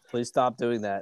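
breathless whispered begging; whispered plea. Real, not acted. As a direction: whisper Please stop doing that. Begging partner to stop.

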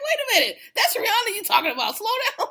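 high, laughing disbelief; mock shock. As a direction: act scandalised that she'd say it. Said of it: "I was like".

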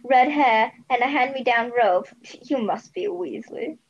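mocking Weasley. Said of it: "he said, mocking the Weasley".

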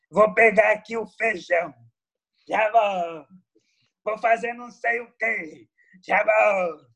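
light TV presenter impression; a hint of a gruff TV host; Marcelo Rezende impression. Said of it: "pego pra imitar o Marcelo Rezende".

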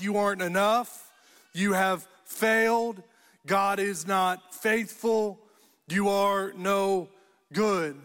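deliberate, emphatic accusations; firm mock condemnation; shouted negativities, understated. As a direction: press each verdict home, pausing between phrases. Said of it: "being shouted at us".

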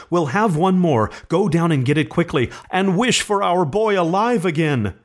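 high, eager urging; elated insistence, pitch held high; triumphant. A narrator's reading. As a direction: urge him on in excited triumph. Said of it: "she cried triumphantly".

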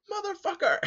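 2 high, loud yelled curse; 3 explode at the locked door; 1 furious curse. Retold or imitated. 4 locked-out cab driver yells at passenger, high furious curse.

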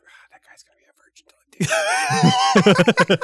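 slow, loud, high, laughing scam-psychic verdict; mock fortune teller. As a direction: pronounce his doom like a fake fortune teller cracking up. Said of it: "You'd be like".

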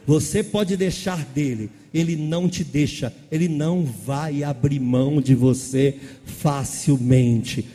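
loud, slow, half-sung preaching; preaching at full force. Acted. Pastor closing the service to the church, loud slow fervent preaching. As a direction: lift the congregation to the close. Preaching climax over music.

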